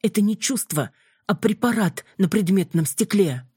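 put-on an indignant girl lashing out at a rival; heated accusation. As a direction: throw her jealousy back at her. Heroine accuses jealous vampiress.

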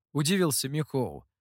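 ordinary delivery, nothing marked

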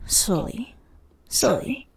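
unvoiced whisper, drawn out; whispered slowly. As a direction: breathe the words slowly. Reading erotic fiction aloud, whispered.

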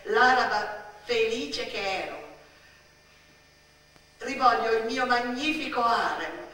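loud, high, theatrical lament for lost beauty; vain grieving figure. Acted. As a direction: mourn the harem and odalisques like a fallen queen. Lament of a lost golden age. (lamento teatrale, acuto e forte)

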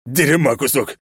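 дерьма кусок yelled loud and high; shouted insult. A narrator's reading. Палач кричит "Дерьма кусок" Ичиро. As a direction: bark "Дерьма кусок" in panic. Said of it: "прокричал палач".

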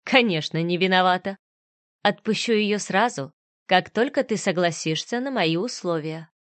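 a hint of cold mockery; villain smirking at the mother, mildly mocking; lightly voiced smirking villain. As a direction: sneer it out lightly. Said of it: "холодный взгляд и ухмыльнулся".

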